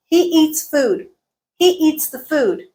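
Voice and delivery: EATS and FOOD on steady beats, "the" reduced; stressed content words. Shown as a demonstration. Teacher giving an example, measured stress-timed delivery. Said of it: "We stressed some syllables".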